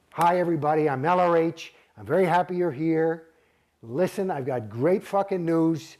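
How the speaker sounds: lightly voiced cheery lecturer; a light mock of a hyped announcement; mimicking L R H. Mocking the congress tapes, a mild cheery lecturer voice. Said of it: "it goes like this".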